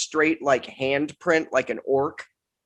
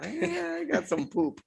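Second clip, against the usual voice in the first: caveman grunt; 5 dB quieter than usual. Acted. Caveman finds poop as a weapon.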